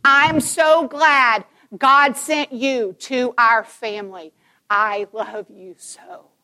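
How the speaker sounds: put-on slow, tender words to a child held close; tender scripted line. Shown as a demonstration. Mom cradling her child's face, slow and tender. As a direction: say it slowly, with love. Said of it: "I'm gonna script you".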